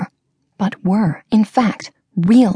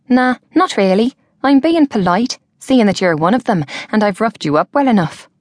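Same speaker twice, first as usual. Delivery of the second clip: lightly voiced young woman, cheeky and quick; 2 semitones higher than usual. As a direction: rib him good-naturedly. Georgia teases the wealthy man.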